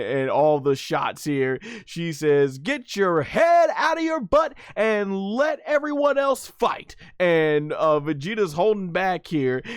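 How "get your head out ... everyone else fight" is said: high-pitched mock telling-off; hammed-up high nagging yell; imitated scolding. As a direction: scold like an exasperated cartoon wife. Acts out Bulma scolding Vegeta.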